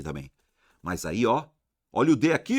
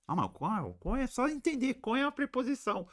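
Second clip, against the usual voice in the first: pergunta de aluno em voz alta e rápida; aluno imaginário; 14 semitones higher, 5 dB quieter, faster than usual. Pretend. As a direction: faz a dúvida do aluno, apressado. (voz de aluno perguntando)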